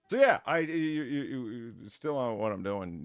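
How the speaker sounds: stuffy, congested voice; blocked nose. Real, not acted. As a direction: talk through a blocked nose. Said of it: "You might hear it in the voice".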